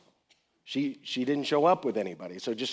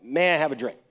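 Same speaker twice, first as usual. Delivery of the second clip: polite request; 2 semitones higher, 8 dB louder than usual. Shown as a demonstration. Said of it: "real polite, it's real cordial".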